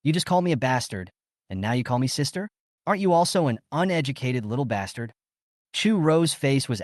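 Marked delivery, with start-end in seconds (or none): 0.0-5.1 sneering. Acted. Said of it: "Chu Xiaoli sneered".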